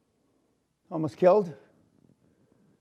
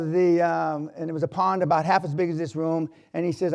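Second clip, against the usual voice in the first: normal talking voice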